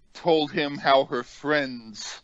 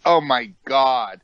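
disgusted; 4 dB louder than usual. Retold or imitated. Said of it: "he made this stink face".

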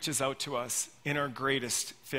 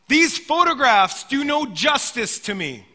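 indignant, louder and higher; mock indignant boss; angry outburst; 8 semitones higher, 9 dB louder than usual. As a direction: retell the vain man's huffy complaint. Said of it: "he got angrier".

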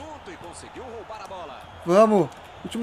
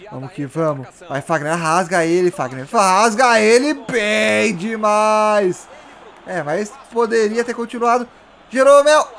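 ordinary delivery

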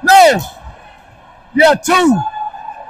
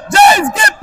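calling from far away. Real, not acted. Coach yelling across the court.

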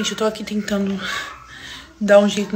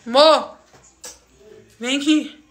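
calling out; 3 semitones higher, 3 dB quieter, much slower than usual. Real, not acted. Calling partner from another room.

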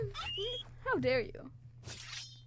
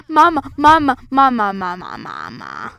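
put-on whiny baby calling; 3 semitones lower, 13 dB louder than usual. Baby calling mother in game.

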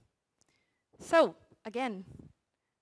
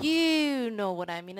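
stretched duration; 4 dB louder than usual. Shown as a demonstration. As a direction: lengthen each word of "You know what I mean". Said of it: "Duration, I was like".

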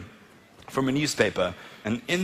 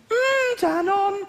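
very high, slow moaning Danone; mock orgasm; much slower than usual.

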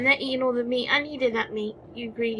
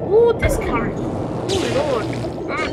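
loud startled ooh, much higher; surprised; 3 semitones higher, 7 dB louder, much slower than usual. Real, not acted. Gamer swept away by the current, startled. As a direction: yelp as the current grabs you.

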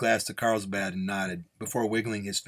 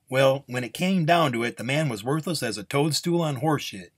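higher, louder lightly acted scorn; scornful nun; 5 semitones higher, 4 dB louder than usual. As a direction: dismiss the man with contempt. Nun scorns the last man.

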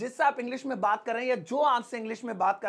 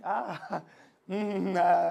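distracted agreeing; 4 semitones lower than usual. Shown as a demonstration. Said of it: "screen पे देखना".

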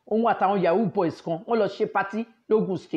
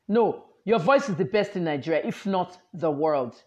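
quoted compliment; 3 semitones lower than usual. Retold or imitated.

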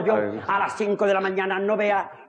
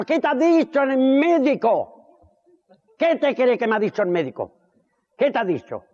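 camp voice; 3 semitones higher than usual. Acted. Camp gay character voice in joke.

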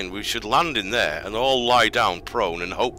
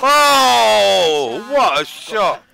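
put-on Thai accent; 13 semitones higher, 11 dB louder, much slower than usual. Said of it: "My Thai accent w-, needs work".

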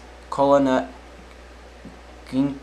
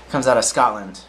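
a self-mocking stab at a Scottish accent, barely changed from the usual voice; bad Scottish accent; 3 dB louder than usual. Shown as a demonstration. Newsreader introducing the Scotland story, badly faked Scottish accent. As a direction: try the line in a clumsy Scottish lilt. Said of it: "I'm saying it with the worst accent in the world".

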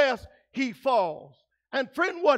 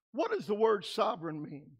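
softer and lower, ask it again; hushed repeat; 4 semitones lower, 6 dB quieter than usual. Real, not acted. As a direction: pull them in with a quiet question. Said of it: "Now, what does the word sovereign mean?".

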